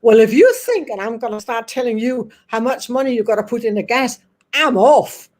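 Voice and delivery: mock-indignant Cockney impression; Cockney huff, lightly hammed up; old Cockney guy. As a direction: imitate a fed-up Cockney, ending on a loud kick. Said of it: "he was very much like that".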